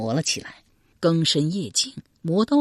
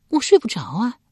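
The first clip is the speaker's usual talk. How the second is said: high, plaintive wifely reply; higher-pitched character voice; wife's voice; 7 semitones higher, 4 dB louder than usual. A narrator's reading. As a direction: answer as the sleepless wife. Wife answers in character.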